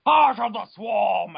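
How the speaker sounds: slow, loud epic title; hammed-up title call; dramatic shout. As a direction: proclaim the game title grandly. Dramatic title in lore reading.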